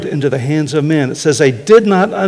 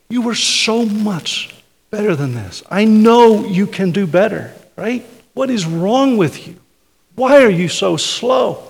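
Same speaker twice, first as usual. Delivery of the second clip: coach's challenge; 6 semitones higher than usual. Retold or imitated. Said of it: "the way that a coach will yell at his players".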